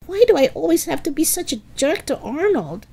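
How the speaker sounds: high-pitched exasperated lament; wailing self-reproach. A narrator's reading. Helga regretting her insults to Arnold, high wailing lament. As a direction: scold yourself in a high, anguished voice. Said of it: "she wailed".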